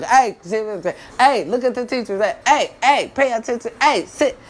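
put-on yelling at a kid. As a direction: snap at a fidgety four-year-old. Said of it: "I be like".

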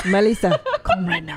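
put-on playful Spanish accent; hammed-up Spanish-accented come-on; Javier Bardem. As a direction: say it with a Spanish lisp on the name. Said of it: "would say it like that".

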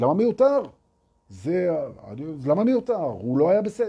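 высокий возмущённый голос эго; возмутись, как обиженное эго; indignant ego voice. Retold or imitated. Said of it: "האגו יבוא ויגיד".

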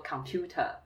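computer with no R at the end; British computer. Shown as a demonstration. Teacher explaining schwa, British computer without the R. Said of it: "英国人他们不会有R的那个音".

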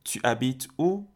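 où rising slowly, drawn out; rising question. Shown as a demonstration. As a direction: stretch out où with a rising question tune.

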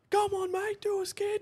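high heckling bogan voice. Retold or imitated. Spectator heckles the drivers, high goading call. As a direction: egg them on like a rowdy spectator. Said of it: "this guy's like".

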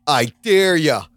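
lazy schoolyard goading; mock taunt. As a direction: taunt them, drawing out each word. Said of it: "it's the worst taunting".

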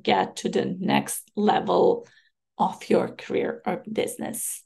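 hoarse, worn-out voice. Real, not acted. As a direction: speak through a hoarse throat. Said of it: "hearing my hoarse voice".

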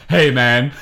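half-laughing hammed-up tough greeting; tough-guy voice. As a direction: go heaps tougher, jokingly. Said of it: "I was gonna go heaps tougher".

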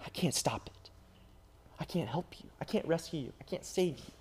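quiet grief after the shout; hushed and broken. Acted. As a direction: drop the voice to near nothing. Sudden quiet after climax.

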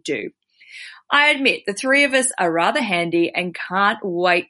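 reading a listener's letter aloud. Acted. Host reading a bride's letter to guest, read-aloud style.

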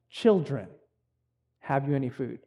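put-on soft, tender call to the children; tender address. Jesus gently asking his disciples, tender and soft. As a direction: say it like a fond parent to little ones. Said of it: "is a term of endearment".

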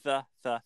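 th, th with the tongue on the teeth; a coach modelling the th sound for a learner; th sound demo. Shown as a demonstration. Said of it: "tongue on the teeth".

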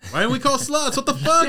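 loud, high shocked cry; surprised outburst. Real, not acted. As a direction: blurt it out in disbelief. Realizes friend was forgotten.

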